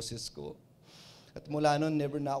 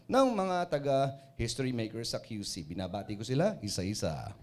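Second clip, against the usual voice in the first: radio DJ greeting; 3 semitones lower than usual. Shown as a demonstration. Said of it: "ganitong ganito marinig nyo".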